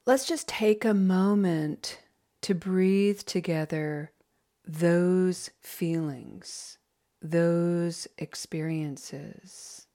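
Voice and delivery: gentle slowed meditation voice; guided meditation. Acted. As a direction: ease the group into breathing together. Leads a breathing meditation.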